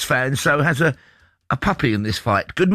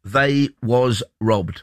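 drawn-out, deadpan mock grievance; slow mock lament; much slower than usual. Host sums up the caller's feelings, slow mock lament. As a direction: spell out each word slowly, tongue in cheek. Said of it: "Three words which might sum up how Craig was feeling".

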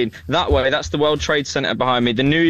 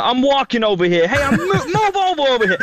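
New Yorker impression; 9 semitones higher than usual. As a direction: shove past like a New Yorker in the street. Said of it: "those impressions were spot on".

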